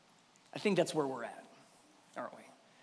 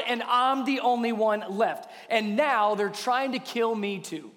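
indignant self-justifying. Acted. Elijah answering God about his troubles, indignant. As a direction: plead the case point by point. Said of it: "Do you hear that in Elijah's voice".

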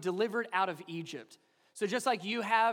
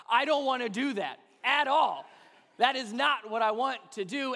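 reluctant grumble; 4 semitones higher, 6 dB louder than usual. Retold or imitated. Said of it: "vocally came out".

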